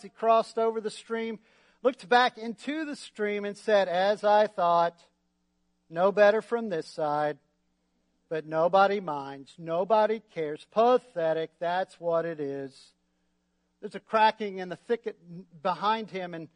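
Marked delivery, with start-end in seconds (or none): 3.9-12.9 glum Eeyore. Acted. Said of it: "said Eeyore glumly".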